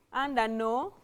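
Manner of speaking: low, soft, piecemeal dictation; dictating while writing. Real, not acted. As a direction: say it to yourself in fragments as you write. Writing the sentence out while saying it.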